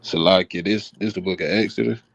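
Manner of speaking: talking while chewing gum. Real, not acted. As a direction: speak around a wad of gum. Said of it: "Damn, somebody sound hungry".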